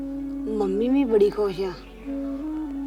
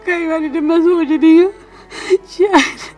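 crying; 2 semitones higher than usual. Acted. Telling her sister she ruined her own life, sobbing. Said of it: "ਤੂੰ ਐਵੇਂ ਰੋਈ ਜਾਣ ਡਈ ਆ।".

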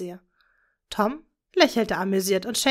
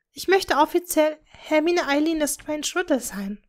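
put-on higher young girl's voice; eager daughter; 5 semitones higher than usual. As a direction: plead earnestly with dad. (eifrige Tochter, höhere Stimme)

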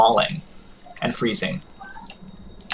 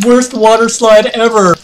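bright, loud playful exclaim; excited exclaim; 7 semitones higher, 4 dB louder than usual. Pretend. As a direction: call it out like a fun ride review. Joking about digestion as slide.

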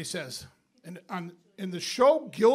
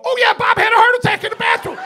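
mock announcement; 13 semitones higher, 7 dB louder than usual. Announcing to whole bar.

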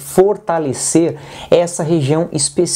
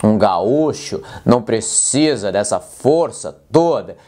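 pushed much lower, forced and heavy; 7 semitones lower than usual. Shown as a demonstration. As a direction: overdo the low chest voice like a gaúcho. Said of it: "Meninos que começam a falar desse jeito".

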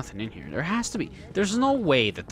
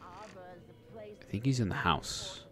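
slow, hushed hiding voice; whispering while hiding; 8 semitones higher, 9 dB quieter, much slower than usual. Real, not acted. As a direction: murmur it so he can't hear. Hiding from the enemy.

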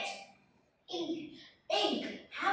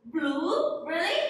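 surprised; 2 semitones higher, 5 dB louder, slower than usual. Real, not acted. Child says wrong color.

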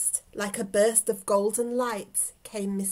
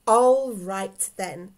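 growl, then slow, loud agreement; slow lion grumble; grudging lion; 4 dB louder, much slower than usual. A narrator's reading. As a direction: growl and drag out the consent. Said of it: "said Mister Lion".

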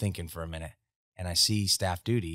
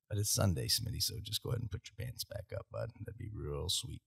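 mock gentle aside; 3 semitones lower, 6 dB quieter than usual.

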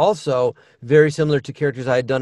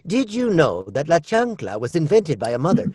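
nerdy science guy voice. Shown as a demonstration. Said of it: "Make him, uh, nerdier".

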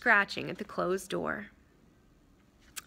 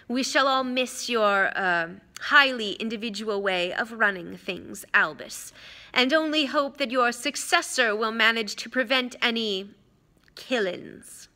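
smug villain, falsely courteous; 3 semitones higher than usual. Acted. Villain's farewell in narration.

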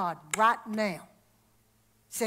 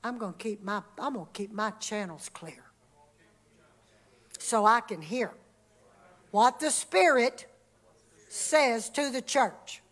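congregational declaration; 3 semitones lower than usual. Shown as a demonstration. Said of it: "say this out loud".

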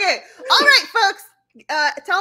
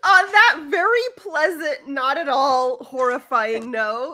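laughing sign-off; 4 dB louder than usual. Real, not acted.

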